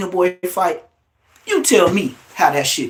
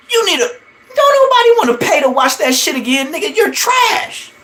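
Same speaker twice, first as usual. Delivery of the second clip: much higher, loud, laughing taunt; cackling yell of you're trash; laughing mockery; 12 semitones higher, 3 dB louder than usual. Real, not acted. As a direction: laugh while you trash him. Laughing scolding the rival.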